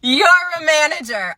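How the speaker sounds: high, loud mocking laugh; scornful laughing disbelief. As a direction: laugh incredulously at the very idea. Customer laughs at her being manager.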